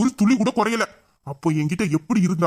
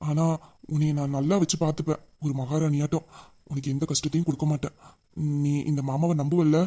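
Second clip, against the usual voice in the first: tender promise; 3 semitones lower, 5 dB quieter than usual. Acted. Hero promises to care for her.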